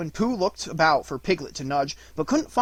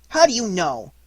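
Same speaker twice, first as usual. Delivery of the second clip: put-on a touch of childish indignation, pitched up; indignant; 5 semitones higher, 7 dB louder than usual. A narrator's reading. Roo protesting to his mother, indignant. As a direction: protest like an offended little one. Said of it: "asked Roo indignantly".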